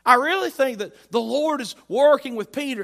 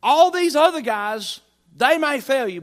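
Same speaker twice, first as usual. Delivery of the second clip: loud, high proclamation; boastful Peter; 5 semitones higher, 8 dB louder than usual. Acted. Preacher acting Peter setting himself above the other disciples, loud boast. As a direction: declare it big, with raised pitch. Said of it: "And so Peter said".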